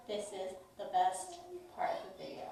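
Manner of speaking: whispered teaser. Real, not acted. Vlogger teasing her viewers with big news, whispered. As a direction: lean in and whisper the secret.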